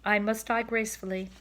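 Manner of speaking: high, loud, hammed-up farewell; a dying swan bidding goodbye to the world; theatrical dying swan. Cob's grand dying farewell.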